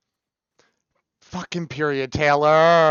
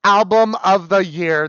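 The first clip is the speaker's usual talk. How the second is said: excited proclamation; 4 semitones higher, 6 dB louder than usual. Real, not acted. Declaring praise.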